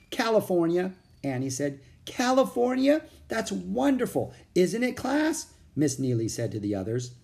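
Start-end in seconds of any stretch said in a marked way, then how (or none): 0.1-0.9 put-on slightly bright-pitched child's answer, higher voice; higher-voiced simple reply; plain answer. A narrator's reading. Annie answers the teacher's question. 2.0-5.5 very high, louder delighted echo; high-pitched wonder, lifting into a question. A narrator's reading. Teacher delightedly echoes Annie's answer.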